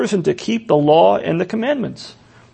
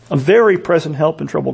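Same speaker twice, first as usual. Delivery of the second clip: same words again, quicker and a touch lower; quick echo; 4 semitones lower, faster than usual. Shown as a demonstration. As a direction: toss off "A very present help in trouble" as a fast restatement.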